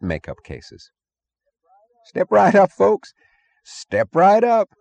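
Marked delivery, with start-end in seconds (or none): 2.1-4.7 high, loud carnival barker yell; cheerful sideshow barker. Acted. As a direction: yell it like a carny. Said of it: "the barker was yelling cheerfully".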